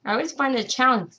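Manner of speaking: mumbling with Velcro between teeth; talking with something in mouth. Real, not acted. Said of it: "if I sound like I'm mumbling".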